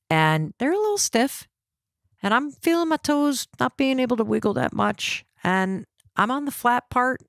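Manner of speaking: retold nervousness. Hiker testing stiff boots in the dark, retold nervousness. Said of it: "I start to get nervous".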